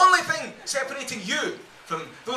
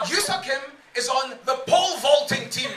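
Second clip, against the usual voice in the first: shouted punchline. Acted. Shouted punchline over music.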